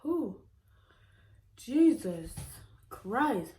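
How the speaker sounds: loud, high cry at the heat; burning spice reaction. Real, not acted. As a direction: yelp at the burn. Reacting to spicy noodles.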